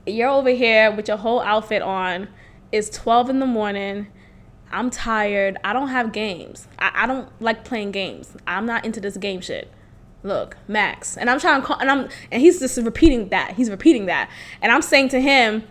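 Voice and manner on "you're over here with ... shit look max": low, hushed, tired-of-this man; mad calm. Retold or imitated. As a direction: quietly imitate his calm refusal to play along. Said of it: "he's mad calm".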